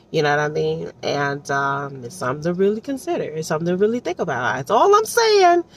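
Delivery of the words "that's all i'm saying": emphatic. Real, not acted. Emphatic aside.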